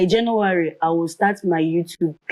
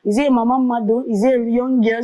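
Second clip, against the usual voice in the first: surprised listener; 6 semitones higher than usual. Retold or imitated. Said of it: "ah, you say".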